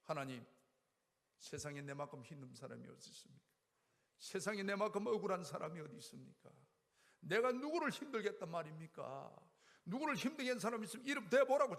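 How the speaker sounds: retelling his angry outburst at God; complaining to God. Retold or imitated. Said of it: "불평하며 달라들었습니다".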